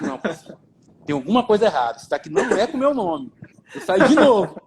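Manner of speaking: chuckling in disbelief while retelling; amused disbelief at a bad score; laughing disbelief. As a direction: laugh through the words, can't believe it.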